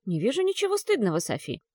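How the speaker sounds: calm, even, reassuring reply; steady and composed; restrained. Acted. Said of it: "сдержанно ответила Джилл".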